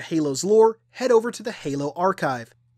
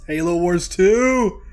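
excited; 2 semitones higher, 6 dB louder, slower than usual. Real, not acted. Reacting to game reveal trailer.

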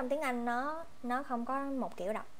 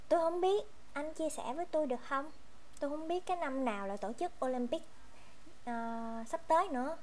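higher-pitched, lightly acted student asking for help; playing a student; 4 semitones higher, faster than usual. Shown as a demonstration. Teacher plays a student asking a partner for the year, lightly acted. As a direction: ask the partner for the answer. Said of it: "Ví dụ như mình không biết".

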